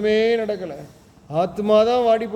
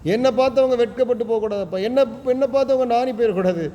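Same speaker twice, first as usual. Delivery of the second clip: lamenting plea; 4 semitones higher than usual. Acted. Preacher voicing David pleading with God, higher lament. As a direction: cry out to the Lord, begging for an answer. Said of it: "என்று புலம்புகிறான், கத்துறான்".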